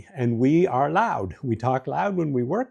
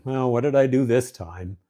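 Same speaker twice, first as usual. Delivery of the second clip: defensive. Shown as a demonstration. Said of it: "Rather than".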